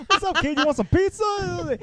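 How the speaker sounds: loud, high, hammed-up dad; doing it up. Dad offering his kid pizza, in loud mock excitement. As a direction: call out high and loud, really overdoing it. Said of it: "he's doing it up".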